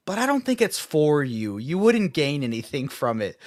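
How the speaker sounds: mock-condescending, with a lilt on FOR YOU; smug, condescending. Co-host dismissing a book for his friend, smugly condescending. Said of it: "in the smuggest, most condescending tone I've ever heard".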